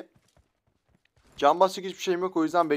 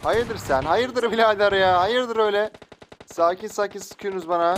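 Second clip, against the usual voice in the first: raised, louder mock confrontation; indignant challenge; 4 semitones higher, 3 dB louder than usual. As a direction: challenge them like picking a playful quarrel. Confronts players shooting at him. (hesap sorar gibi çıkışma)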